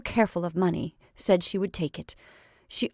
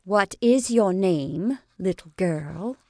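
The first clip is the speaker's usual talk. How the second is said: slow, gentle question; more gently; 4 dB louder, slower than usual. Acted. Lottie asks the frightened girl again, slow and gentle. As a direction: ease off and ask her kindly. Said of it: "but more gently".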